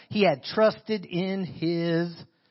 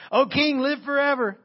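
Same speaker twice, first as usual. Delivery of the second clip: from behind the rock; 8 semitones higher, 4 dB louder than usual. Shown as a demonstration. Daniel answering from the den.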